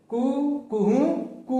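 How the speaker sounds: कू कुहू कू fired off quickly, lightly mock crow; head up, crow it fast; quick rooster crow. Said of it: "सिर उठाकर तेजी से बोलता है". (तेज़ मुर्गे की बांग)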